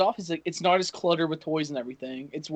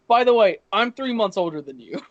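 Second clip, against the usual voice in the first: laughing quote; 5 dB louder than usual. Retold or imitated. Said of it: "He's like".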